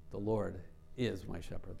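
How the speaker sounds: "is" set apart after a short pause; pause, then lean gently on "is"; stress on is. Shown as a demonstration. Preacher rules out if and but, stress on "is". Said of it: "let's emphasize each word".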